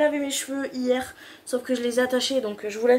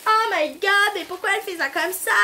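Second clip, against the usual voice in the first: shocked hairdresser; 7 semitones higher than usual. Retold or imitated. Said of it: "tous les professionnels ... vont dire".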